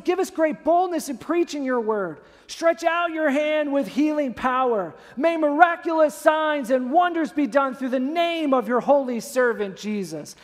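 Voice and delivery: emphatic declaimed prayer; bold, confident prayer. Acted. Early church praying despite threats, bold and emphatic. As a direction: pray it out with power and boldness. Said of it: "They prayed with confidence".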